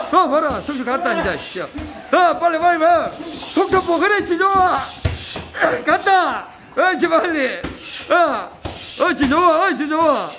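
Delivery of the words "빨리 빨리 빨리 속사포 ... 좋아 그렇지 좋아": excited shouting. Real, not acted. Coach cheering a flurry of punches.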